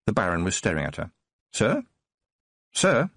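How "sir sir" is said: urgent calling. Acted. Tiffany calls to the unresponsive Baron.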